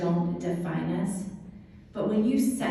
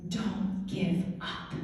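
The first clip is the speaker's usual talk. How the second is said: emotional whisper; 3 semitones lower, 5 dB quieter, slower than usual. Retold or imitated. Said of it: "I was an emotional mess".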